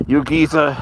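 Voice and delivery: a light Cockney lilt on "You geezer", geezer falling; a hint of London Cockney. Shown as a demonstration. Trying a Cockney accent on the UK viewers. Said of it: "you speak Cockney?".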